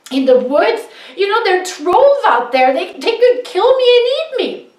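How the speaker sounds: put-on high, loud, whining young son; whiny scared son. A narrator's reading. Eldest son whines to his father about trolls. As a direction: plead like a frightened teenager. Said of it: "was just like".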